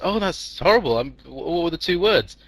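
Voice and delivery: high-pitched mock dismay; shocked mom. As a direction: react like an appalled, concerned mother. Mom reacts with horror, concern.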